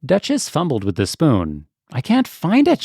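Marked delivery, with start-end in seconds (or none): 1.9-2.8 high, anxious and a little louder; fretting cat who can't find the patty pan. A narrator's reading. Duchess searching the pie dish, anxious and high. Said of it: "she said anxiously".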